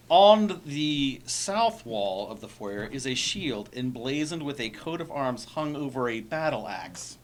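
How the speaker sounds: slow, deliberate reading aloud; slow careful reread. Shown as a demonstration. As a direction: read it again slowly and clearly. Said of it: "re-reads the description".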